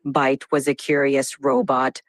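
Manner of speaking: low monotone robot voice; robotic voice. Acted. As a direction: speak like a dramatic robot. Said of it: "in a robotic voice now".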